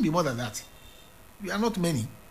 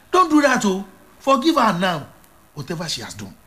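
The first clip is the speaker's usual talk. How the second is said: urgent plea; 2 semitones higher, 3 dB louder than usual. Real, not acted. Appeal to congregation.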